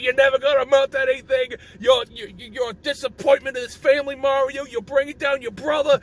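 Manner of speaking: mock-scolding Italian accent; lightly hammed-up Italian father; stereotype Italian dad. Mario's dad berating his son, stereotype Italian accent. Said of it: "They're all every Italian stereotype".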